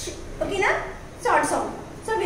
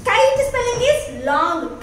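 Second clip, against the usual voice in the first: slow teaching; 5 semitones higher, slower than usual. Shown as a demonstration. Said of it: "fish means I sound is short or long?".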